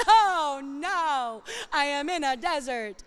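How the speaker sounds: mock dramatic. Preacher mocking her own dramatic side, mock despair. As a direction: play up the drama, tongue in cheek. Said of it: "I'm pretty dramatic".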